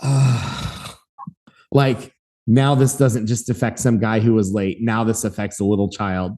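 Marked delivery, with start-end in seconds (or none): 0.0-1.0 long breathy groan of dismay; exasperated sigh. Retold or imitated. Gate agent seeing wife and daughter, heavy sigh. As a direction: let out a heavy, put-upon sigh. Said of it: "you saw this look where she's like".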